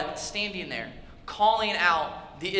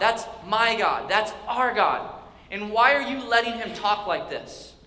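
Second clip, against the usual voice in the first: indignant, emphatic challenge, slowing on key words; deeply disturbed. Acted. David challenging the Israelites about Goliath's insults, deeply disturbed. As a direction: demand an answer with mounting force. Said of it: "David is deeply disturbed".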